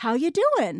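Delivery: cheerful, happy, engaged voice. Explaining choices for a scene, the speaker shows a happy person's line: happy and engaged. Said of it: "you could be a happy person that's really engaged with life".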